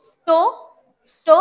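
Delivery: স্টো with just a hint of dental s; touch the s lightly going into স্টো; barely sounded s in স্টো. Shown as a demonstration. Teacher isolates the syllable for the class, faint s in স্টো. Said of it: "শুধুমাত্র মনে হবে".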